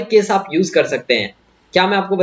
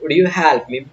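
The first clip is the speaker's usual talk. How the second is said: polite request; 3 semitones lower, much slower than usual. Shown as a demonstration. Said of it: "बिल्कुल politely बोलना है".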